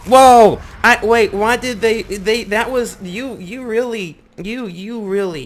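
loud, high whoa of shock; startled shout. Real, not acted. Gamer startled by a fast enemy, loud then stammering. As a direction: jump at the surprise, stammering.

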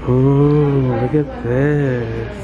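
talking through a face mask; muffled voice behind mask. Real, not acted. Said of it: "Hope you guys can hear me with this mask on".

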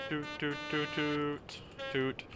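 soft tooting along with the horn; quiet sung-out horn toots; imitated train horn. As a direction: mimic a train horn, "toot toot". Imitating the train horn while driving.

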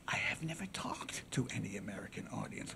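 low, hushed plea to the jury; soft-spoken orator. Acted. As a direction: speak softly, as a humble defendant. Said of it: "he talked very softly".

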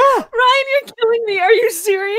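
high, loud and incredulous; overwhelmed disbelief. Real, not acted. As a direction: cry out, floored by the news. Overwhelmed by donation total.

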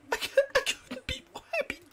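high, quick, laughing; laughing with joy. Real, not acted. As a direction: gush through giggles. Overjoyed laughing.

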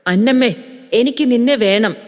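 a hint of hungry longing in an old man's voice; changed, longing voice. Father-in-law to daughter-in-law, mild yearning plea. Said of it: "അപ്പച്ചന്റെ ശബ്ദം മാറിയിരുന്നു".

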